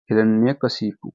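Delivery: हिरण्यकशिपु spelled out slowly for writing; slow dictation. Shown as a demonstration. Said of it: "इसको कैसे लिखेंगे". (धीरे-धीरे लिखवाते हुए)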